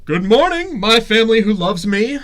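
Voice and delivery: put-on high squeaky baby voice. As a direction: chirp it like a cheerful baby. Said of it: "I'll be the baby".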